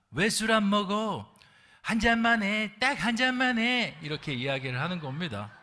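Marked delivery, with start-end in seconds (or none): 0.1-4.0 higher, louder, slow insistence; pushy senior worker. Retold or imitated. Senior worker urging the newcomer to drink, pushy and raised. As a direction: press him to drink, voice climbing. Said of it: "고참 외국인 노동자가".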